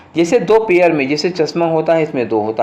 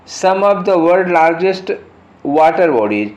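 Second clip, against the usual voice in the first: reading the sentence very slowly, word by word; slow dictation read; 2 semitones higher, much slower than usual. Shown as a demonstration. Teacher reading the question sentence to students, very slow and deliberate. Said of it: "reads the exam sentence aloud".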